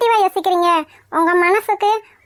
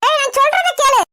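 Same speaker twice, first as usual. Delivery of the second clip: raised, higher-pitched order to listen; urgent scolding demand; 5 semitones higher than usual. Acted. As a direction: break in and make your son hear you. Mother tries to stop son. (அதட்டலாகச் சொல்லுதல்)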